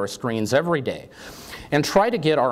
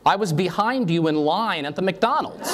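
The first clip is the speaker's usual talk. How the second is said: laughing punchline; 5 semitones higher than usual. Acted. Punchline of the joke.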